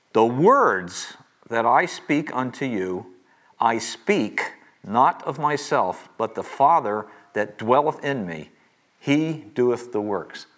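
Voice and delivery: slow, deliberate Bible reading; scripture reading. A narrator's reading. Teacher reading Jesus's words to the class, slow scripture reading. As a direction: read the verse out slowly, weighing each phrase.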